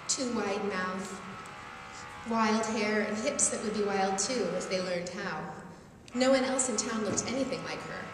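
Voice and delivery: unhurried storyteller reading to an audience; story reading. A narrator's reading. Author reading her own novel to a crowd, storyteller voice. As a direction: read the tale aloud, savoring the images.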